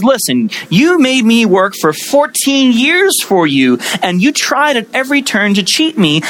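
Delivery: acted furious son-in-law; Jacob's rage. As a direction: fire back at Laban, indignant and heated. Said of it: "Jacob answers his rage with rage of his own".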